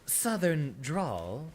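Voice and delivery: slow, drawn-out Southern drawl. Shown as a demonstration. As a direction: stretch it out with a Southern twang. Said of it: "hear a lot more of the".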